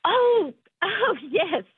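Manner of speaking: put-on British, high opening; fake British accent. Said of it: "drop the British thing".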